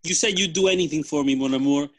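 rising into a laughing plea; a lover begging, breaking into laughter; dramatic movie line. Pretend. Spy heroine pleading with her old lover.

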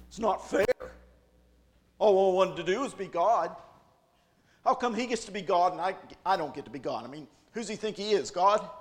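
pouting Satan grumbling about God, loud and whiny; sulking Satan. Acted. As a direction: whine like a sore loser. Satan sulking after being kicked out.

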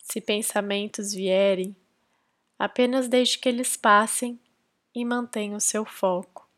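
calm, measured meditation guidance with long pauses; guided meditation. Real, not acted. Podcast host leading listeners into silent breath concentration, guided meditation. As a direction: guide them gently into focus, leaving space between phrases.

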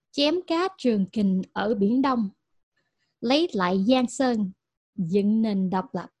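put-on reading Vietnamese poetically in a Vietnamese American accent; poetic recital. Host reciting Batu's Vietnamese quote in a poetic Vietnamese American accent. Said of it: "make this sound poetic in my terrible, uh, Vietnamese American accent".

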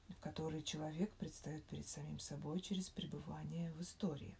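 hushed bedtime reading of theory. Real, not acted. Reads an academic article in a whisper. (тихое чтение статьи на ночь)

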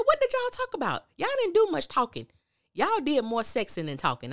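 high, loud incredulous comeback; mocking retort. Recapper mocks the couple's claim of talking, loud and high. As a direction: call out the lie with a high, mocking yell.

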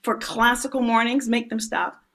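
lightly voiced stern teacher; strict inner teacher. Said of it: "The teacher in me said".

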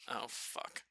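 a hushed, whispered curse in church; whispered dismay. Retold or imitated. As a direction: breathe it out like sudden dread. Realizing they must carry coffin again.

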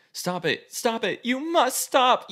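from firm to high, loud, slow yell; rising shout. Acted. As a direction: build to a desperate command. Protagonist shouting at Quayle.

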